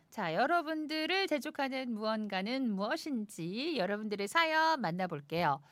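ordinary talk

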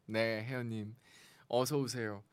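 ordinary talk, nothing marked

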